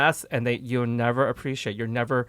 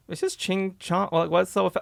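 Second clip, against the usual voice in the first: brushing it off; dismissive; 6 semitones higher than usual. Retold or imitated. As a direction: shrug it off dismissively. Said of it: "Very dismissive".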